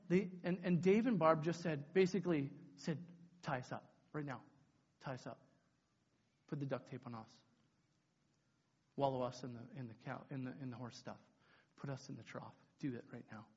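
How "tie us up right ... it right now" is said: low, hushed, earnest instruction; solemn offer. Retold or imitated. Two leaders offering to take kids' punishment, hushed solemn plea. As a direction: drop right down, pausing between each request.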